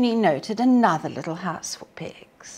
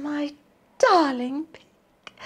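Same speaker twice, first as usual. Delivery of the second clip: Red Riding Hood; 8 semitones higher than usual. A narrator's reading. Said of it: "she said".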